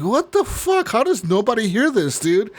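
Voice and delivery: high, alarmed what-the-hell; boy at the shaking door, high startled disbelief. Retold or imitated. Kid startled, door shaking at night.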